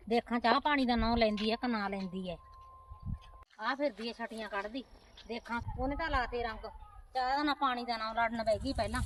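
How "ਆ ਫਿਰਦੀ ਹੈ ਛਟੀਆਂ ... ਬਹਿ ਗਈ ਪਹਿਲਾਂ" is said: much softer sulky grumble; aunt muttering resentfully to herself, much softer; soft grumbling. Acted.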